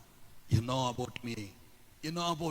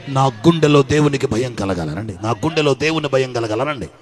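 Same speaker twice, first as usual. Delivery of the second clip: loud, driving sermon cadence, louder; preaching at full force; 20 dB louder than usual. Acted. Preacher rousing the congregation to fear God, loud and driving. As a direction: hammer each line home to the church.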